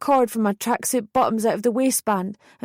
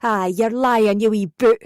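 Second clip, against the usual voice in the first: angry mother. Retold or imitated. Mother yelling in phone row.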